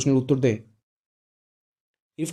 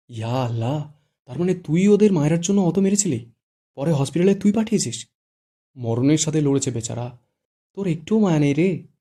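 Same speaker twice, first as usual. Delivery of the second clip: shocked; 3 semitones higher, 5 dB louder than usual. Acted. Shuddho, shocked, confronts Irfan about the beating. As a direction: gasp it out in alarmed disbelief. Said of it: "চোখ বড় বড় করে বলে".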